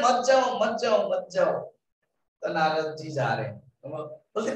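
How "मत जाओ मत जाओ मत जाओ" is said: quick repeated pleading, starting higher and easing down; urgent warning. Retold or imitated. Villagers forbidding Narad to go near the dacoit, urgent warning. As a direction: voice a crowd trying to stop someone. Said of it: "और सब मना कर रहे".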